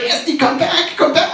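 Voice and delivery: put-on a high, urgent call after a runaway child; calling after her. Father calls his daughter back as she runs away.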